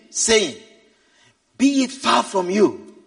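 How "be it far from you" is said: understated, slow admonishment; mild rebuke. Acted. Peter takes Jesus aside to correct him, mild rebuke. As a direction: gently reprove in measured words. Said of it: "began to rebuke him".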